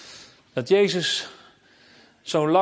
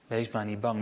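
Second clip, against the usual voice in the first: much softer, lower, almost breathed; near hush; 7 semitones lower, 10 dB quieter than usual. Acted. Jesus repeating his comfort to the disciples, fading very soft. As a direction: let it fade to a gentle hush.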